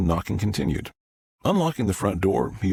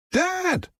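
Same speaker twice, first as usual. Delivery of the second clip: very high, drawn-out cry; panicked cry. Acted. Son beating on the door, crying out in panic.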